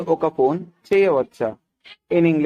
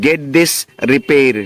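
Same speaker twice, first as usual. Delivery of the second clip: each word slow and clear; slow teaching read; 2 semitones lower, much slower than usual. Shown as a demonstration. Teacher reading slowly to students. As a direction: spell it out slowly for learners. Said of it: "Once again".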